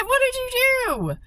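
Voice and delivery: high, loud shocked shout of disbelief; loud, high cry of astonishment; shocked yell. Retold or imitated. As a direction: yell it at him in total shock. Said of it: "I yelled it".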